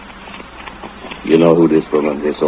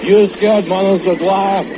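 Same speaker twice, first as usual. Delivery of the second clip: higher mock taunt; retold taunt; 14 semitones higher than usual. Bogdan recalls taunting Manus, higher. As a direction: needle him lightly. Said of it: "You hear yourself say".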